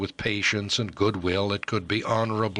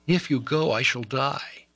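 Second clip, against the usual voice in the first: despairing cry; 7 semitones higher than usual. Acted. Despairing lover's outburst.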